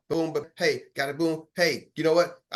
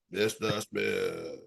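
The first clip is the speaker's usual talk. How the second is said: much lower, very slow and soft; low murmured variant; 10 semitones lower, 8 dB quieter, much slower than usual. Shown as a demonstration. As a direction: drag it out low and quiet. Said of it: "start changing up and everything".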